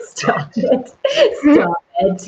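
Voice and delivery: laughing plea, high; laughing at her co-host's joke, high and breathless. Real, not acted. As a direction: stop it through laughter. Laughing at friend.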